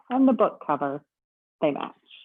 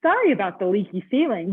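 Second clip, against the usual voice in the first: bellhop voice; 2 semitones higher, 5 dB louder than usual. Acted. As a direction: welcome the guest like a cheerful bellhop. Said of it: "the bellhop said".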